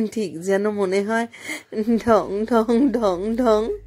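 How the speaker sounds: ঢং ঢং ঢং ঢং stretched very slowly like a tolling bell; drawn out. A narrator's reading. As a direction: daughter mimicking the station bell, drawn out. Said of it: "ও টেনে টেনে বলল".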